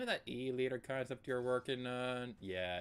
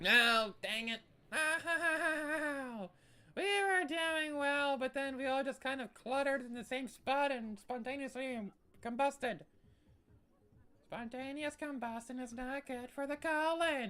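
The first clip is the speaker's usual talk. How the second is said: odd, very high-pitched, slow put-on voice; 13 semitones higher, 4 dB louder than usual. Streaming a game after the whole team dies at once: weird high-pitched voice. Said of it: "I've been speaking in the weird high-pitched voice".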